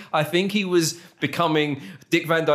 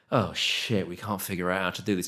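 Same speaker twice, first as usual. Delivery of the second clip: low, soft and quick; acted thought; 7 semitones lower, 6 dB quieter than usual. Film-makers stuck on how to link the stories, muttered. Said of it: "and thought".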